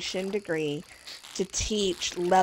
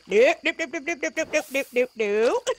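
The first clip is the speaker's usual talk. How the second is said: rapid string of nopes, higher; emphatic refusal; 6 semitones higher than usual. Real, not acted. Refusing to become a substitute math teacher, emphatic nopes. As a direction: shut it down fast, nope after nope.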